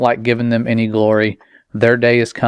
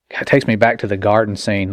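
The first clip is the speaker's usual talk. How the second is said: ordinary talk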